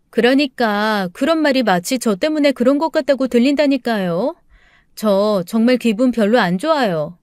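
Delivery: lightly acted irritation; displeased daughter-in-law. Daughter-in-law tells mother-in-law she feels blamed, mildly annoyed. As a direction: insist you have been slighted, mildly peeved.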